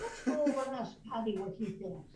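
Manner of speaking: rousing Irish pub-goer; Irish accent. Shown as a demonstration. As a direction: propose it firmly in an Irish brogue. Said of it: "let's see if I can do it".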